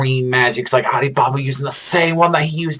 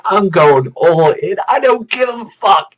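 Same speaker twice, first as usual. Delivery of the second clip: high-pitched acted defiance; reckless battle declaration; 9 semitones higher than usual. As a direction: throw caution away, hammed up. Acting character's reckless declaration.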